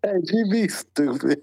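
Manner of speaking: loud, slow playful jab; loud teasing. Real, not acted. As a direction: tease him loudly, laughing. Teasing a friend in chat.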